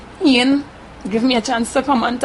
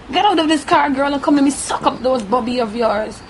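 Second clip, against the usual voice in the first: a raised, commanding man's voice, quoted; retold harsh order; 3 semitones higher than usual. Retold attacker ordering her out of the car, raised and harsh. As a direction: mimic the driver barking orders.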